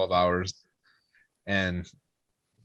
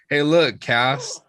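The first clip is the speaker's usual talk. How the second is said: raised, mock-proud drunk announcement; drunk showing off; 4 semitones higher, 5 dB louder than usual. Drunk brother announcing himself to sister, goofily proud. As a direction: imitate a silly drunk calling for attention.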